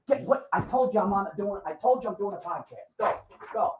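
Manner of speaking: high-pitched, off-mic snapping at a pet; scolding the dog. Real, not acted. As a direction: shoo the dog out, annoyed. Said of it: "were you talking to the dog like that".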